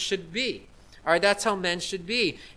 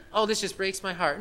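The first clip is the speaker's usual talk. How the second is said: mocking pastor; 6 dB quieter than usual. Preacher mocking other pastors, soft and whiny. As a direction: mimic a weepy pastor with disdain. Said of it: "But for a man".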